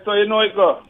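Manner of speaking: normal talking voice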